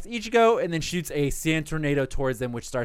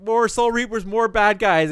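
panicking; 5 semitones higher, 3 dB louder, slower than usual. Retold or imitated. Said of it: "Nell's like".

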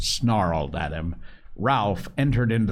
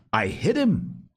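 eager insistence; 10 semitones higher than usual. Acted. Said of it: "Ralph said again".

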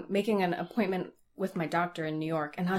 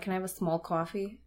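put-on New York accent; 8 dB quieter than usual. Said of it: "are you actually from New York?".

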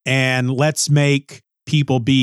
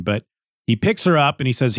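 ordinary talk, nothing marked

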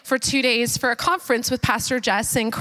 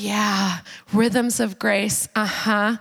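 distracted; 6 semitones lower, much slower than usual. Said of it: "I'd be listening to them and I'm like".

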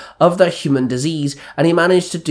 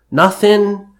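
higher-pitched, mildly huffy brush-off; 6 semitones higher, 4 dB louder than usual. A narrator's reading. Moody son brushing off his father, lightly huffy. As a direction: huff it out like a moody kid. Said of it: "Maxwell huffed".

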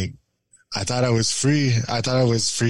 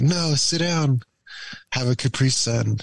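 put-on babying; 5 semitones higher than usual. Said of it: "really babying me".

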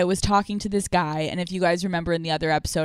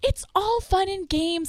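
lightly mock breezy; 11 semitones higher than usual. Brushing off the upset guy.

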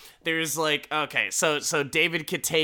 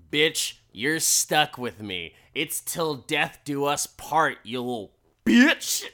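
menacing wife; 4 dB louder than usual. Retold or imitated. Wife threatening husband.

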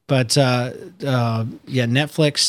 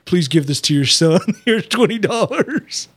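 David Blaine voice; 5 semitones higher than usual. Retold or imitated. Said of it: "it's David Blaine".

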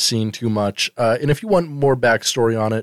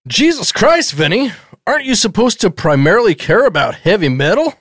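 raised-pitch parody of a scolding father; mock angry dad; 5 semitones higher than usual. Father scolding his slacker son Vinny in a higher mock-angry voice. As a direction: nag him like a fed-up sitcom dad.

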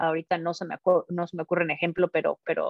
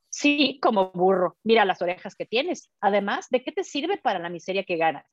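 sarcastic retort. Acted. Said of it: "desdén y sarcasmo".

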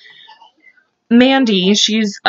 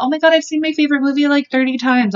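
gushing fan imitation; 5 semitones higher, faster than usual. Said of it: "people, like, talk about".

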